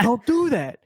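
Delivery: high, loud, laughing scold; hammed-up panicky old-man scold; mock freaking-out old man. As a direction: play the old man losing it, half laughing. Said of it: "He's, like, freaking out".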